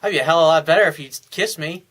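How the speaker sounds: confident playful tease; flirty teasing. Shown as a demonstration. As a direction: toss it at her with a cheeky grin. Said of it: "I would have said".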